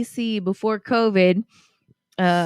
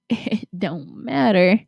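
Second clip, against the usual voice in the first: Southern drawl; slower than usual. Acted. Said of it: "read this as Southern".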